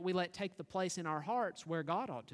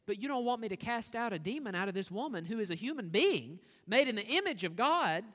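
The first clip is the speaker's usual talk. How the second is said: rising indignation; 4 semitones higher, 5 dB louder than usual. Acted. Preacher voices Jesus' indignation.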